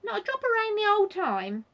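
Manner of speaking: loud, gruff outburst; suddenly gruff. A narrator's reading. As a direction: let a rough voice slip out loudly. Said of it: "whose voice had suddenly gone quite gruff".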